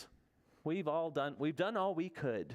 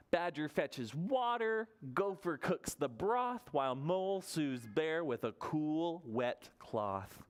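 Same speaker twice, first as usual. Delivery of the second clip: put-on reading to children; slower than usual. A narrator's reading. Reads picture book to children.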